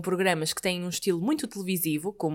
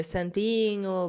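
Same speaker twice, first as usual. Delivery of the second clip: drawn out slowly; much slower than usual. Shown as a demonstration. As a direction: say "Santinho" slowly, stretching every syllable. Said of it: "têm o hábito ou não de dizer".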